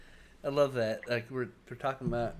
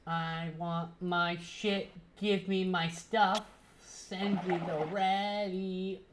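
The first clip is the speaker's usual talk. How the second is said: whiny demand; 4 semitones higher, much slower than usual. Pretend. Childish demand for delivery.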